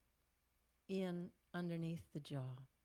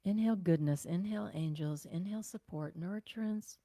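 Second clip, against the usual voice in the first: calm meditative inhale cues; guided breathing; 4 dB louder than usual. Acted. Guiding the class through breaths, calm and meditative.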